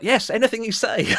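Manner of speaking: mock-timid total compliance; meek submission. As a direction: give in at once to the giant. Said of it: "I was like".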